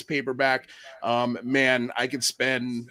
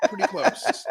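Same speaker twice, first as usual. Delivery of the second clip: "Pretty close" jumps far higher, playful squeak; squeaky repeat. Real, not acted. Repeating the joke answer.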